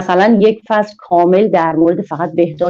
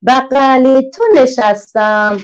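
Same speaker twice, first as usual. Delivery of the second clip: a lightly voiced, higher, slow little one; little letter character; 5 semitones higher, slower than usual. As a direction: speak as the small letter cuddling close. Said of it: "ا غیر اول میگه".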